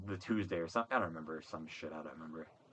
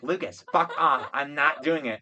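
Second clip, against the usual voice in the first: retold yell; 3 semitones higher, 4 dB louder than usual. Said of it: "Madison yell".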